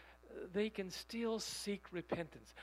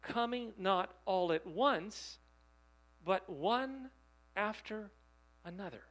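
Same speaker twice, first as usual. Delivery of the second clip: coming not all at once said slowly, louder; slow stressed quote; 4 dB louder than usual. Shown as a demonstration. Preacher recalling the quote for the congregation, slow and stressed. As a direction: spell out each word, slow and weighty.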